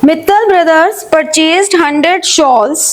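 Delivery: dictating the question word by word; slow dictation read. Acted. Teacher dictating the accounting problem to students, slowly.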